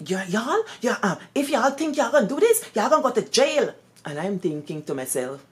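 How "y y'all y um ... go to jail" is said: stern headmistress threat. Retold or imitated. Headmistress scolding over scratched receipt.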